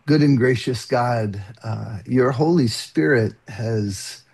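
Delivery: calm opening prayer, steady. Real, not acted.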